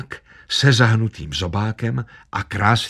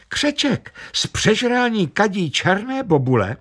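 much higher, wide-eyed squeal; 11 semitones higher than usual. A narrator's reading. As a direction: squeak it out in shock. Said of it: "vypískla". (vysoké vypísknutí)

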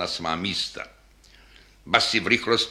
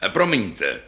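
low double bass speaking; a lightly voiced big instrument; deep voice. Falling bass apologizes to its neighbour, lightly deep voice. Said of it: "pravila hlubokým hlasem basa".

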